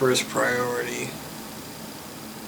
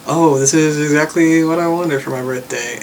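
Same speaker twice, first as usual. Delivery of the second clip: dry sarcastic thanks, a bit louder; 3 semitones higher, 5 dB louder than usual. Retold or imitated. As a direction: sound fake-grateful. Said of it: "I say something sarcastic like".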